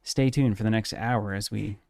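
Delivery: measured, unhurried mock public-radio intro; NPR radio host parody. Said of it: "isn't that accurate, though?".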